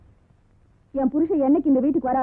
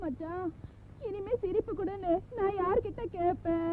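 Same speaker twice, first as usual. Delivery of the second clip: hushed lament; 4 semitones higher, 10 dB quieter than usual. Acted. Lamenting parted husband.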